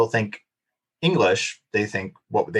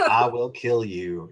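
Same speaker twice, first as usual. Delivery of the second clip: drawled threat; slower than usual. Shown as a demonstration. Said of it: "unless I get tired, drunk, or pissed off".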